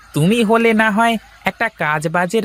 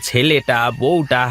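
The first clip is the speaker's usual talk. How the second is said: sorrowful pity; 4 semitones lower than usual. Acted. Bystander pities the injured man's family.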